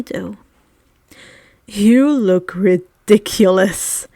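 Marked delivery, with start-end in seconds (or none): 1.7-4.1 slow, sneering voice out of the corner of the mouth. A narrator's reading. Malfoy mocks Harry in passing, a slow sneer. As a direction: drag it out with a sneer. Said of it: "Malfoy sneered out of the corner of his mouth".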